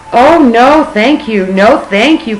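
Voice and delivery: loud, high, panicked refusal; frightened cry. Acted. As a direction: cry out in alarm. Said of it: "cried Suki".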